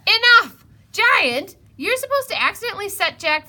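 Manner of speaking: loud, high furious shout; angry shout. Acted. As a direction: explode at them to stop. Narrator loses patience.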